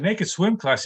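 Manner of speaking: acted student's baffled query; mock disbelief. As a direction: repeat it back as a startled question. Student questions teacher in disbelief.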